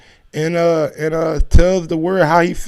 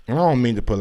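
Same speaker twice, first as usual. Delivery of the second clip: usual speaking voice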